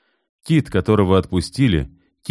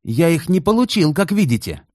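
sarcastic anger; 12 semitones higher than usual. A narrator's reading. Kit shaking doll, angry.

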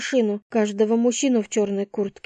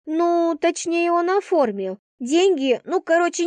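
higher-pitched, halting backpedal; evasive hedging; 8 semitones higher than usual. A narrator's reading. Friend hedging about who paid, evasive. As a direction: correct yourself, dodging the details.

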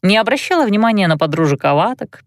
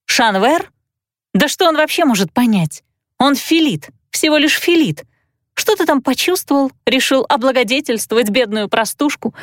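exclamation; 4 semitones higher than usual. Acted. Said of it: "я воскликнула".

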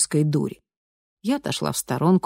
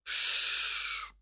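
soft placating hiss; примиряющее шипение; soothing shush; 11 dB quieter than usual. A narrator's reading. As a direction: shush her to calm down. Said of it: "примиряюще зашипел".

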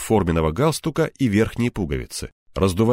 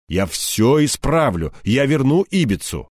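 pleading; 6 semitones higher, 4 dB louder than usual. A narrator's reading. Subordinate pleads after a threat.

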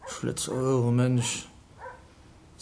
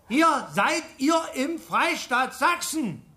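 slow, over-clear words to foreigners; slow patronising explanation; speaking slowly; 4 semitones higher, much slower than usual. Acted. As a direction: spell it out for the strangers.

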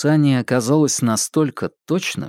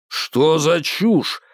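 slow, drawn-out mock roar; mild roar; 5 semitones higher, much slower than usual. Babkin reacting to Ilyushin's theory, a slow mild roar. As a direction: let чушь out slowly in a mild growl. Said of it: "взревел Бабкин".

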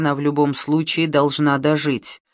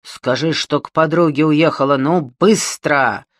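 громкий угрожающий нажим; тянуть угрозу; злое давление; 4 dB louder than usual. Acted. Бандит давит, держа за горло. (медленно и угрожающе)

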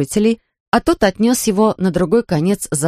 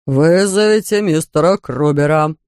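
weary judge. Acted. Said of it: "устало проговорил судья".

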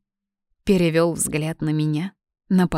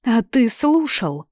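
higher, slow outraged question; indignant; 6 semitones higher, 4 dB louder, slower than usual. Acted. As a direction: sound indignant. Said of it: "возмутилась я". (возмущённо спросить)

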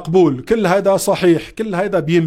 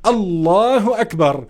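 a slow, measured الله أكبر; slow takbir; slower than usual. Shown as a demonstration. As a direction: say الله أكبر slowly and deliberately. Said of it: "ثم تقول".

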